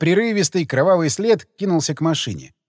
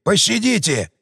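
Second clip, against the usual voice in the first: wailing; 4 semitones higher than usual. A narrator's reading. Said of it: "завопил Вава".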